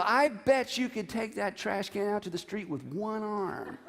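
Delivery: laughing through a mock compliment, voice dropping soft; teasing flattery. Wife teasing husband into taking the trash out, laughing. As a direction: coax him with a chuckle. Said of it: "It's like, you know".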